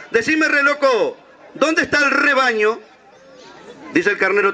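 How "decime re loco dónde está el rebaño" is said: slow, higher drawn-out diva voice; drawling sheep. Retold or imitated. Sheep asks the ram about the flock, slow drawl. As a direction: draw out the words, higher and lazy. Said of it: "la oveja hablaba así".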